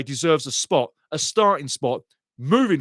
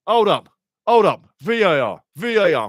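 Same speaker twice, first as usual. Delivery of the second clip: urgent calling out; 3 semitones higher, 5 dB louder than usual. Real, not acted. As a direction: call out sharply to halt play. Calls for halt over penalty check.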